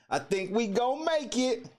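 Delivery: a bright, lifted hopeful chant; excited. Shown as a demonstration. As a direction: repeat it like a hopeful little chant. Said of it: "repeats it in a different voice".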